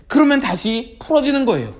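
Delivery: ordinary talk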